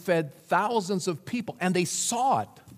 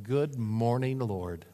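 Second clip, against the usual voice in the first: grateful greeting; 3 semitones lower, slower than usual. Retold or imitated. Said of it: "some of you others said".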